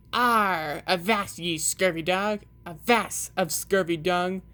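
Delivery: a hint of a bellowing pirate; egg-shaped toy pirate, lightly voiced. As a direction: mildly growl like a broken toy pirate. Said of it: "pirate that bellowed".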